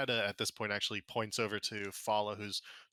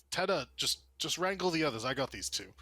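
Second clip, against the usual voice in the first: raised-pitch, harried instruction; put-upon guard, higher at first and settling; exasperated order; 5 semitones higher, 3 dB louder than usual. Acted. Guard handing the others to Teta, exasperated order.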